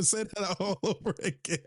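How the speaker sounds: laughing through the repeat request. Real, not acted. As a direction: ask again while cracking up. Asking again while laughing.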